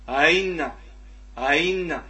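أين with second hamza softened toward a y; eased second hamza. Shown as a demonstration. Teacher modelling tashil with kasra, أين with hamza near ya. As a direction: let the second hamza of أين slide halfway into ya. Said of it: "من الياء في حالة الكسر".

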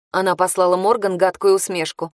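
plain reading voice

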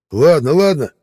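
high, loud, hurried give-up; panicked surrender. Acted. Rollo dropping the knife, panicked surrender. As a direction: gasp it out giving up.

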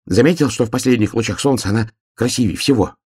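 high, quick little hedgehog voice; a small eager hedgehog, asking. Acted. Hedgehog asks the bear cub while running, high and quick.

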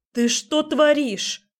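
high, loud, slow outraged cry; shout. A narrator's reading. Heroine shouts at Dima carrying her off, loud cry. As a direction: yell it in disbelief. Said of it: "закричала я".

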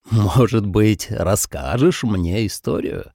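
slow, teasing question; mocking. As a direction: taunt him with a slow smirk. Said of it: "насмешливо спросил он".

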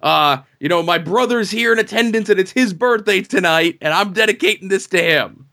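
high, earnest racer thanking the crowd; a hint of a good-guy wrestler; babyface promo. Winning racer dedicating the win to his brother, mild babyface. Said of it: "He's like".

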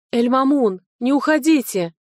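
громкий, высокий умоляющий крик; кричать вслед, не отпуская его; отчаянный крик. A narrator's reading. Умоляет уходящего наставника остаться. (отчаянно кричать вслед уходящему наставнику)

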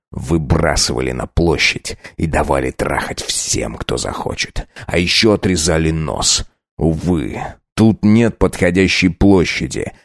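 low, hushed cruel threat; menacing count. Acted. Count taunting the pinned girl, low and cruel. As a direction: savour every cruel word.

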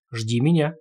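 ordinary delivery, nothing marked

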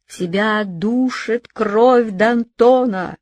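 slow, drawn-out accusing yell; terrible shout. Acted. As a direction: cry out in a dreadful voice. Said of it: "закричал ужасным голосом".

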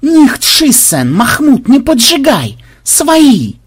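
high, loud pleading yell; yelling in panic. A narrator's reading. Flutter begging Makhmud not to shoot, yelling. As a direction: wail for them to hold fire. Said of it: "завопил Флаттер".

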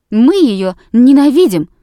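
loud, clear cry; ringing shout. Acted. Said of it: "звонко крикнула Бельская". (Бельская звонко кричит о классной даме)

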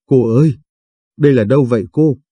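mildly surprised, quickening into the question. A narrator's reading. Old man asks the girl where he is, mildly surprised. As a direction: ask with a touch of puzzlement, fairly quick. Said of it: "Ông ngạc nhiên hỏi".

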